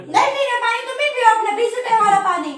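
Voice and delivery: indignant refusal. Real, not acted. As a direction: throw the offer back at them, fed up. Refuses water in a quarrel.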